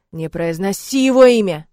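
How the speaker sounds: loud, forceful roar at his daughter; roaring father. Acted. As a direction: bellow the order to stop. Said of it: "ревёт отец". (отец ревёт на дочь, громко и властно)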